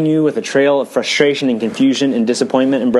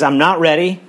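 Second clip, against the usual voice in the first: higher-pitched retold cry of refusal; mild mock scream; 4 semitones higher than usual. Preacher retelling a labouring mother's refusal to push, mild mock scream. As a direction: protest in a raised pitch, only hinting at a scream. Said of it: "She's screaming at the top of her lungs".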